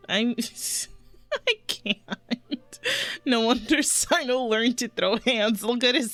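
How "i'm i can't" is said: laughing. Real, not acted. Streamer cracking up at joke.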